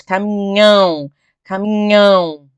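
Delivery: "Caminhão" arrastado, com o "ão" saindo pelo nariz; som nasal no ÃO. Shown as a demonstration. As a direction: deixe soar pelo nariz o final de "caminhão", devagar. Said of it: "o som sai pelo nariz". ("caminhão" alongado e nasalizado)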